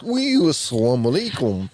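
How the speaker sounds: put-on "Oui, assalamu alaikum" in a jokey French accent, the vowels a little nasal and the "Oui" tossed in for flavour; hammed-up French accent greeting, deliberately off; mock French accent. Host jokingly shows co-host a French accent greeting. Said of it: "I don't think the French accent goes like that".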